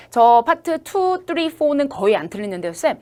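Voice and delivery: imitating a student. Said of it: "많은 친구들이".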